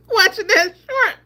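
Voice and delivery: high and loud through laughter; words squeezed out by laughing. Real, not acted. Laughing to viewers about the short.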